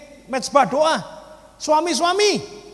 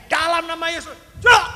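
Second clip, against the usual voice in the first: higher command ending in a sudden burst; retold shout; 4 semitones higher, 5 dB louder than usual. Preacher re-enacting striking the rock with a crowbar, shouting. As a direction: re-enact a cry of faith, punching the last word. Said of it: "teriak gini".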